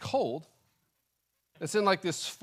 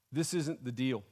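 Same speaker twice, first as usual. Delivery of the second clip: low, soft, understated grievance; subdued complaint; 5 semitones lower, 7 dB quieter than usual. Acted. Believer silently protesting to God, subdued complaint. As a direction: voice the grievance quietly.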